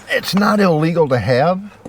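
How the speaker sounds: strained, effortful voice; grunting with effort. Real, not acted. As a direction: grunt through the words while moving. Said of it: "I'm kinda grunting and strutting".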